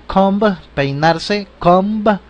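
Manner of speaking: comb with the b sounded; comb, closing on a voiced b; English comb. Shown as a demonstration. Teacher sounding out the final letter. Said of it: "pronunciamos la última letra".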